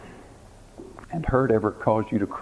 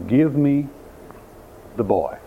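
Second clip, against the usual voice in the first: quiet compassion; 2 semitones higher than usual. Acted. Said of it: "He was quiet, he was compassionate".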